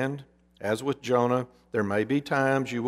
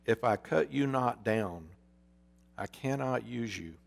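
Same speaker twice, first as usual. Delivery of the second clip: softer, sombre and final; graver still; 5 dB quieter than usual. Acted. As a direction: state the hard truth gravely. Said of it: "the master's voice grew graver still".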